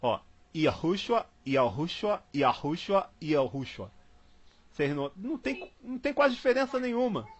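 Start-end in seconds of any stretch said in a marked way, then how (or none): 0.0-3.9 Yahushua said four times, each a little different, falling lower each time; four pronunciations. Shown as a demonstration. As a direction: say Yahushua slowly, varying the vowels lightly each time. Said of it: "vamos falar os três aqui".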